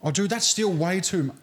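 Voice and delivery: high, strained, laughing through the burn; gasping from hot sauce heat; mouth burning. Real, not acted. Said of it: "I've just finally recomposed myself".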